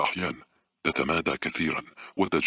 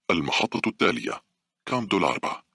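higher metro announcement voice; automated announcement; 7 semitones higher than usual. A narrator's reading. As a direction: announce the stop like a recorded call. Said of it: "انطلق النداء الآلي معلنا". (نداء آلي للمحطة)

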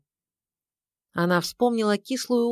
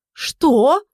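sharp, high, loud what; indignant start; 8 semitones higher, 8 dB louder than usual. A narrator's reading. Wife jolting up at her husband's cold reply. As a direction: jolt up in outrage. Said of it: "вскинулась хозяйка дома".

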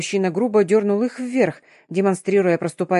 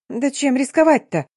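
high, louder squeaky retort; squeak; 6 semitones higher, 3 dB louder than usual. A narrator's reading. Polina daring to answer the curator, squeaky. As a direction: pipe up, suddenly brave. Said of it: "пискнула осмелевшая Полина".

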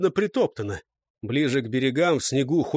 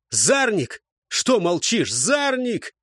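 raised, insistent call; urgent calling; 6 semitones higher, slower than usual. A narrator's reading. Светил calls his silent comrade Зарник, urgent calling. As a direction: call out higher for an answer.

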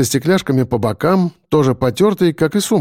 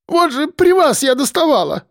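wailing lament; 13 semitones higher than usual. A narrator's reading. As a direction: moan it out in distress. Woman pleads with the seller.

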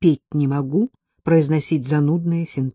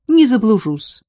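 bright, louder, higher promise; cheerful; 7 semitones higher, 7 dB louder than usual. A narrator's reading. Narrator promises Ella cheerfully, brightly. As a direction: reassure her brightly. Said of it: "бодро пообещала я".

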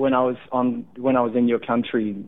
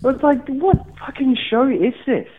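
laughing disbelief; 12 semitones higher than usual. Real, not acted.

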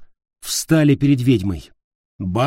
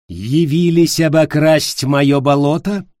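taunting witch; 4 semitones higher, 5 dB louder than usual. Acted.

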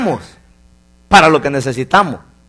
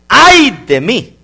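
drawn-out lament; 4 semitones higher, 3 dB louder, much slower than usual. Acted. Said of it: "una palabra que dijo Isaías".

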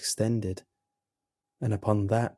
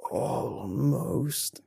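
weak creature voice; 4 semitones higher than usual. A narrator's reading.

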